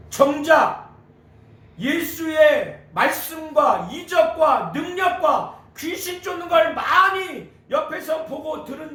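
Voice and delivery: high, emphatic sermon delivery; impassioned preaching. Real, not acted. Preacher explaining the woman's love for Jesus, impassioned. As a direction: drive each phrase home from the pulpit.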